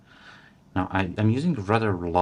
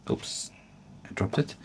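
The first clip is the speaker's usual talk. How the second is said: oops; 4 semitones higher, 7 dB quieter than usual. Real, not acted. Drops the feather mid-wrap.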